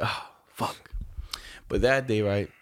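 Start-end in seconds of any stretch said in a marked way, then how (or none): 0.0-0.9 soft breathy "Ah, fuck" under the breath; whispered curse. Retold or imitated. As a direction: mutter it in dread. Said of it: "I was like".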